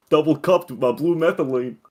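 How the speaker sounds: hammed-up rambler; mock crackhead. Riffing in put-on crackhead voice.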